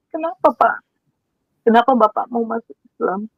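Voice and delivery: high, astonished asking why; disbelieving question to father; surprised question. Retold or imitated. (bertanya heran dengan nada tinggi)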